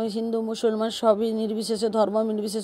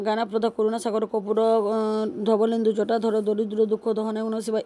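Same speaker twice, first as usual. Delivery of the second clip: prayer recited in a steady run; mantra recitation. Real, not acted. Devotee showing her Shiva puja, reciting mantras. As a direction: recite the Sanskrit prayer evenly.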